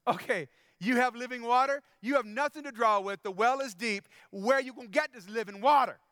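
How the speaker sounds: mild mock scoffing at the stranger; sassy attitude. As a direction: needle him, doubting every word. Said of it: "The second one is".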